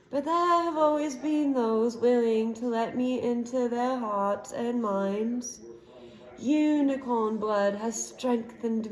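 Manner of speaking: slow, eerie villain voice; a lightly voiced evil face, savouring each word; villain boasting to the cornered boy; menacing dark lord.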